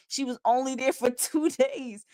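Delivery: laughing disbelief. Real, not acted. Laughing while exclaiming.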